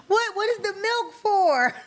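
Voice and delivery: high and loud, cracking up mid-question; real laughter breaking the question; laughing disbelief. Real, not acted. Host cracking up at the milk in tacos idea, high laughing.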